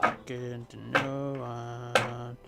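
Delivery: slow, even robot voice. Pretend. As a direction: talk like a robot, slowly. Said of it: "I am talking like a robot".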